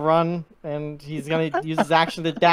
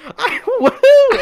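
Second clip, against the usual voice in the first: high, loud laughing whoop; giddy whoop; 11 dB louder than usual. Retold or imitated. Bleeding goblin whooping at the party, giddy high yell. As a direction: whoop it up like a wounded fool. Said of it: "He's like".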